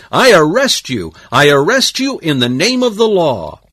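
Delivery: high, shouted official arrest; loud declaration. A narrator's reading. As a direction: proclaim the arrest loudly, for everyone to hear. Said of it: "he declared".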